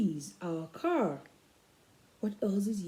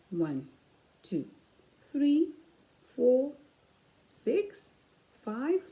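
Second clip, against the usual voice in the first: sing-song counting; 5 semitones higher, much slower than usual. Acted. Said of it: "counting sheep".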